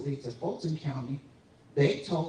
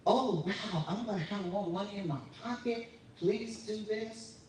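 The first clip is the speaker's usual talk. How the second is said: higher, mock-excited voice of a gullible voter; mock eager voter; 5 semitones higher than usual. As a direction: parody their eagerness lightly, pleading on the last words. Mocking naive voters' excited reaction.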